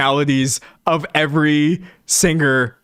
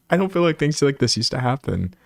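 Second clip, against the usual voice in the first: laughing repeat; 2 semitones higher than usual. Real, not acted. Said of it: "repeats line laughing".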